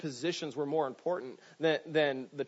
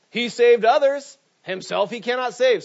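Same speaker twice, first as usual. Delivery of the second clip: mocking taunt; 9 semitones higher, 11 dB louder than usual. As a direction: jeer it at the man on the cross. Priests mocking Jesus on cross.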